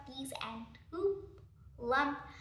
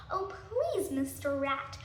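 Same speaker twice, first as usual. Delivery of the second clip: very polite. Acted. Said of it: "very politely said".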